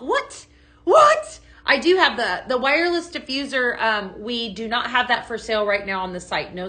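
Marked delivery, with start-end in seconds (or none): 0.0-1.4 high-pitched playful disbelief; hammed-up, very high surprise; mock amazement. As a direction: squeak it in pretend shock at a bargain. Mock amazement at own deal.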